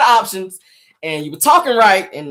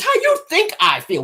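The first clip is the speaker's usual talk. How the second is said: higher, tight-lipped retort; 10 semitones higher than usual. Retold or imitated. Woman answering him through tight lips. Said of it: "with the tight lips".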